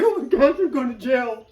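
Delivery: high-pitched mock alarm, touched with laughter; retold panic. Passenger on parole at traffic stop, mock panic. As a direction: exclaim in comic dread.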